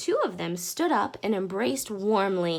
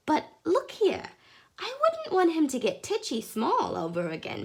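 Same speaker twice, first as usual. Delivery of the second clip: lady's voice; 8 semitones higher than usual. Acted. Mrs Silver voiced, higher.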